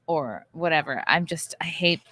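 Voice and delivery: whispered, trailing off apologetically; embarrassed whisper. Real, not acted. Host whispering to co-host in embarrassment, whispered. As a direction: hush it as an embarrassed aside. Embarrassed aside about sounding rude.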